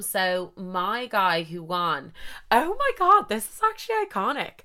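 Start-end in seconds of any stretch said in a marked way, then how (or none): 2.5-4.6 excited realisation. Real, not acted. Telling listeners a funny realisation, excited squeal. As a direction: squeal at the memory. Sudden realisation mid story.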